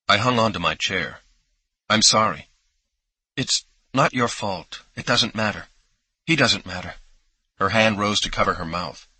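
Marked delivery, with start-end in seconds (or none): 1.9-7.0 a hint of crying under the words; lightly acted sobbing. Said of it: "and she was sobbing".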